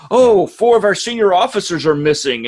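lightly acted alarm; mock alarm. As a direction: imitate someone breaking urgent news. Acted quote of alarmed crew.

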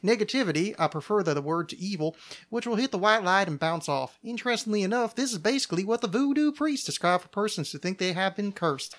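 reading aloud with a southern lilt; light southern twang on read copy; southern accent. Real, not acted. Host reading on protection from evil, southern accent. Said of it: "like, a weird southern thing".

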